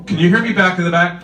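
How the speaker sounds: loud, fast barking drill sergeant. Pretend. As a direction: bark it out like a drill instructor. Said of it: "I can do the drill sergeant voice".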